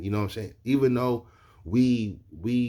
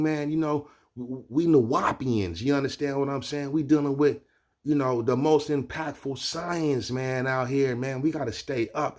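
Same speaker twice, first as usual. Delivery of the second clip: amped up; 4 semitones higher than usual. Retold or imitated. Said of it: "he was hella amped up".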